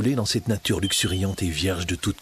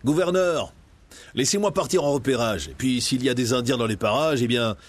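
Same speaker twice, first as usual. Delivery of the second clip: put-on eager young captain; 3 semitones higher than usual. John Smith pleads.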